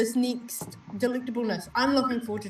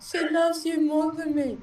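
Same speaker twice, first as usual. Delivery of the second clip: mock jealous; 7 semitones higher, 3 dB louder than usual. Mock jealous complaint to viewer.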